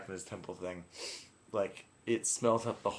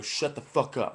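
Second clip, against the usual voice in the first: retold exasperated command; mildly irritated retelling of telling someone off; fed up; 2 semitones higher than usual. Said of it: "I just was so fed up".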